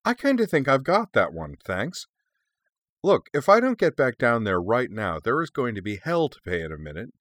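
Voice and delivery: high-pitched, testy backtalk; indignant retort. Acted. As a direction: argue back impatiently at an overbearing elder. Young dragon arguing with her cousin.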